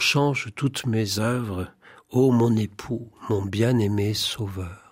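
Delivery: measured devotional poem reading. Acted. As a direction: read it as a prayer in verse, pausing after each line. Reads Thérèse's poem aloud.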